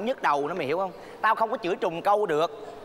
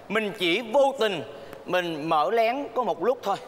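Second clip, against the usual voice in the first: coaxing; much slower than usual. Acted. Má dụ dỗ con mở máy.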